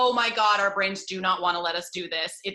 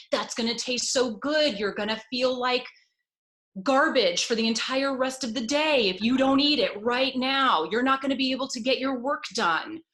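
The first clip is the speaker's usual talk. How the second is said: brain chatter voice; 3 semitones higher, 4 dB louder than usual. Retold or imitated. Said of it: "here's what my mind was doing".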